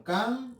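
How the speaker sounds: "canción" broken into can and ción, long pause between; split into syllables. Shown as a demonstration. Teacher separating a word for pupils, "canción" split in syllables. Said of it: "Separo la palabra en sílabas".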